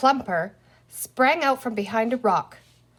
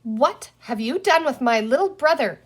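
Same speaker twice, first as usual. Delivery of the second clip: put-on lightly raised, urgent girl's voice; Penny's anxious demand; 4 semitones higher, 5 dB louder than usual. Girl demanding her brother from the green man, urgent.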